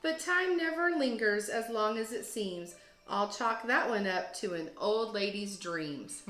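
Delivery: put-on lively rhyming read-aloud for kids; story narration. A narrator's reading. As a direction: read it like a teacher to second graders, with bounce. Teacher reads picture book aloud.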